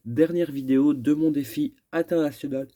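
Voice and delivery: yawning through the words; words stretched by a yawn. Real, not acted. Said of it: "je baille un petit peu".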